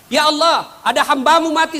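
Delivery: high, loud angel report. Acted. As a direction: call up to God eagerly, pitched high. (malaikat melapor dengan suara tinggi)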